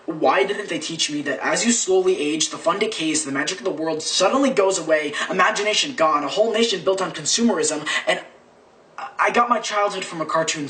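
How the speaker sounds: driving slam-poetry build; spoken-word poem. Acted. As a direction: push the list onward, rising in pitch.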